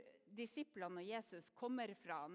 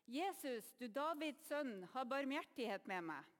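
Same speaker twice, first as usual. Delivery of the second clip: higher, mildly desperate calling out; desperate plea; 3 semitones higher than usual. Acted. Blind beggar begs Jesus for mercy, desperate plea. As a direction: call out as if it is now or never. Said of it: "at han høres desperat ut".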